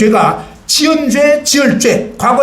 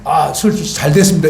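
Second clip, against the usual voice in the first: imitating a doctor; 8 semitones lower than usual. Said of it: "보호자한테 와가지고 뭐라 해요?".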